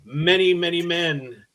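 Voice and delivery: slow, booming Viking warrior. Retold or imitated. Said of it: "Viking voice".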